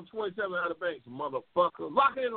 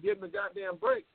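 high mock whine; a lightly voiced pleading racer, pitched up; hammed-up high-pitched plea for a break; mocking Wicked Bird; 12 semitones higher than usual. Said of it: "Wicked Bird, he said".

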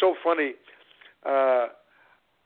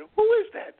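sharply raised, high-pitched question; retold question pitched way up; high-pitched asking; 3 dB louder than usual. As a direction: ask it in a very high voice. Retold question about peeking kid.

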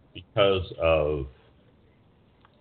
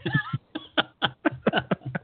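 shrill burst of laughter; high squealing laugh. Real, not acted. Laughs at own joke.

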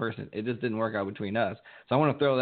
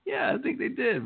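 laughing. Retold or imitated. Quote in high laughing voice.

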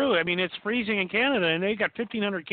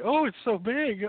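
slow, higher teasing echo of her scream; mocking quote; 6 semitones higher, slower than usual. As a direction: parrot the shriek back, slow and mock. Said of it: "I heard".

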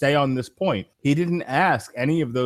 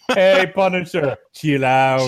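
loud, high, villain taunt; Mister Freeze; 4 semitones higher, 6 dB louder, slower than usual. Retold or imitated. Podcast host quoting Batman and Robin to his friends, hammed-up villain taunt. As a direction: playfully ham up the icy villain's line. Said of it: "do it as Mister Freeze".

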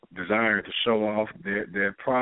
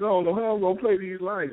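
higher, whiny mock complaint; mock whining stoner; 9 semitones higher than usual. Comedian quoting stoners, mock whine. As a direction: whine like a paranoid smoker. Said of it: "people be crying about their lights".

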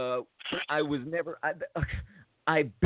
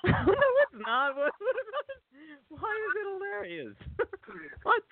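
incredulous protest. Real, not acted. Friend laughs at the shot dog, he protests in disbelief. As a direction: push back, amazed anyone finds it funny.

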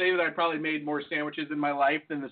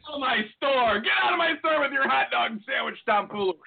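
lightly raised mock scolding; mock angry owner; 5 semitones higher than usual. Pretend shop owner ejects the hot dog sandwich customer, mock angry. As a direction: throw the customer out in play.

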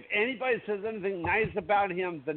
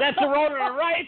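laughing; 9 semitones higher than usual. Real, not acted. Laughing recognition of Roadrunner.

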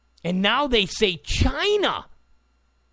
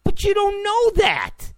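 much higher and building louder, slowing at the end; insistent rebuttal; 10 semitones higher, 5 dB louder than usual. Real, not acted. Rebutting the left on voter fraud, rising insistent and louder. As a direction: hammer the point harder each time. Insisting against the left's claim.

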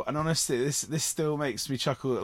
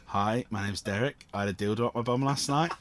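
deadpan. Retold or imitated. Tired lad introducing himself deadpan in workshop circle. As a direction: say it like it means nothing. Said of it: "literally deadpan, literally just went".

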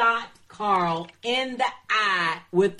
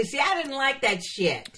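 loud. Real, not acted. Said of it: "Damn, that was kinda loud".

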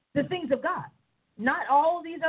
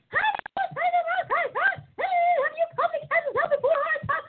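mock devil question.

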